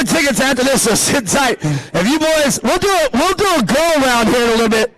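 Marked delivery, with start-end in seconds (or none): none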